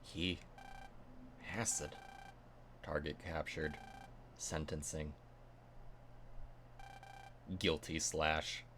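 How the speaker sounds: low, soft robotic monotone. Acted. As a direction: speak like a cold machine. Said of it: "except a lot more robotic".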